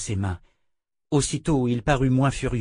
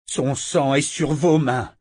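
cold blame; 3 semitones higher, 4 dB louder, slower than usual. Acted. Verna coldly blames Richard.

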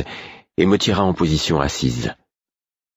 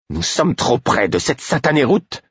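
irritated grumble; 9 semitones higher than usual. Acted. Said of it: "elle marmonna d'un ton irrité".

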